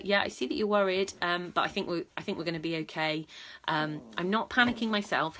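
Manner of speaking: calm reassurance. Retold or imitated. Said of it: "and I tell her".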